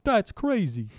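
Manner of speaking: high, slow, startled ape voice; shocked apes. Retold or imitated. Apes stunned the human can talk, high startled voice. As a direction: squawk like a stunned ape who just heard a man talk. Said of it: "And they're like".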